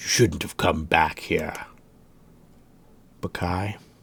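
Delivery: very quiet, low gravelly tone, barely audible. In a tabletop game, the narrator voices Nuka speaking to Bakai; Nuka's gravelly low voice. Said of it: "That kind of gravelly low tone".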